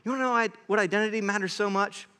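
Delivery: fast, insistent preacher voicing Paul; urgent challenge. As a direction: rattle off the questions, building fervour. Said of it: "He's like".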